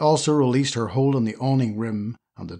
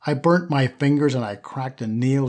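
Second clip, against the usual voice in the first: whining. Acted. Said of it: "she whined".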